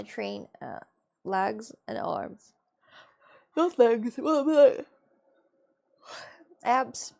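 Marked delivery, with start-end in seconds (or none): 3.6-7.1 emphatic correction. Real, not acted. Correcting gym answer.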